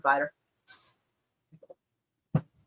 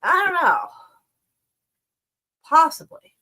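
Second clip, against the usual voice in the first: high, louder I don't know; high drawn-out uncertainty; 10 semitones higher, 7 dB louder than usual. Real, not acted. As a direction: toss it up high and loud. First take, raised.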